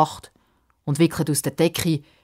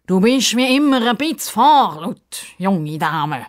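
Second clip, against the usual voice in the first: annoyed hiss; 6 semitones higher, 5 dB louder, slower than usual. Acted. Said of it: "zischt der Justus hässig".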